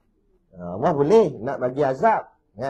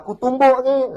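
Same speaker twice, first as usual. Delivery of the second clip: cocky threat; 11 semitones higher, 7 dB louder than usual. Retold or imitated. Youth threatens old man.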